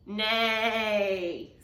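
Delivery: lightly voiced horse nay; a mild horse nay; understated neigh. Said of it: "said Horace".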